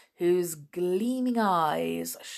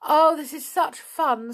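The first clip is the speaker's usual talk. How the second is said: laughing; 9 semitones higher, 6 dB louder than usual. A narrator's reading. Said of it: "wiping the tears of her laughter".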